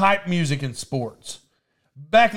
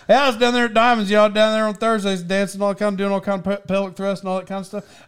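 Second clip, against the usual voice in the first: high, hurried run-through, easing in volume; rattled off fast; 3 semitones higher than usual. Retold or imitated. Retelling a chat with grandma, rattled off fast. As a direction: race through the list as if it were nothing. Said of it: "I said it just like that".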